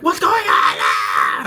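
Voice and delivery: loud, low, slow put-on voice; drawn-out hammed-up alarm; slow loud bewildered voice; mock loud question. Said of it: "I was like".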